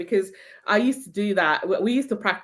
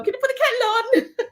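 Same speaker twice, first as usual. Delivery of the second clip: posh British lady. Retold or imitated. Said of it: "she would call out to so-and-so".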